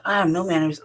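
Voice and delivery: ordinary talk, nothing marked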